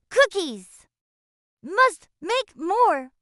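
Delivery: slow, greedy blob monster; dough monster voice. A narrator's reading. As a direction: drag out each word like a hungry monster.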